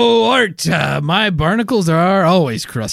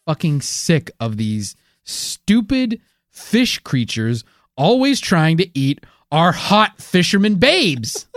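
mock angry rant; 4 semitones higher than usual. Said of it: "I can tell".

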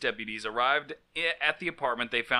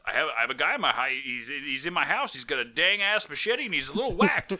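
panicked emergency call. Retold or imitated. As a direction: blurt it out like a scared caller. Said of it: "And, and is".

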